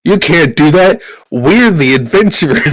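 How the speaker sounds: high, loud mock outrage; protesting lady adventurer. Lady adventurer objecting after the headbutt, mock-outraged protest.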